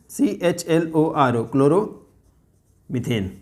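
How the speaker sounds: क्लोरोमीथेन drawn out very slowly; slow spelled-out name. Shown as a demonstration. Teacher spelling क्लोरोमीथेन slowly for the class. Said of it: "IUPAC name क्या बोलते हैं?".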